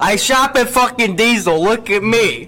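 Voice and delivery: mocking douchebag voice. Mocking a showy Bane fan.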